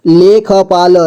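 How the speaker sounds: लेखपाल with ख given its own vowel; syllable by syllable. Shown as a demonstration. Teacher breaking down लेखपाल for learners, syllable by syllable. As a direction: sound out लेखपाल piece by piece. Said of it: "जोड़ जोड़ करके".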